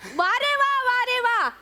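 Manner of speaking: scolding boss with insults; mock the latecomer; Vishakha Subhedar impression. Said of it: "विशाखाताईंचं".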